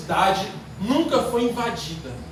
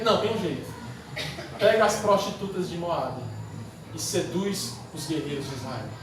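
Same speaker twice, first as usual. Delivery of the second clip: Balaam; 7 semitones lower, 6 dB quieter than usual. Acted. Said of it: "Balaão disse".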